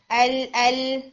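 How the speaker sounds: ال cut short on the tongue tip; wrong tip-only lam. Shown as a demonstration. Teacher warning students what to avoid, ال from the tip only. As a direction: say ال twice from the tip alone. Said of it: "بالکل ٹپ سے آپ کی sound نہ آئے".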